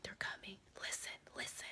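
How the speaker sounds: soft unvoiced whisper, hushed and urgent. The guy whispers an urgent warning about approaching soldiers. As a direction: hiss it so the soldiers won't hear. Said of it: "then he started whispering".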